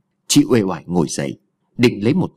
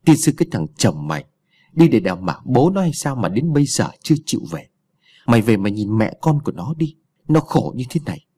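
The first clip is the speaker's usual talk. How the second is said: grumbling curse. Acted. Old mother cursing her absent son-in-law, mild grumbling rant. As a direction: mutter curses at the absent husband. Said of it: "giọng chửi mớ".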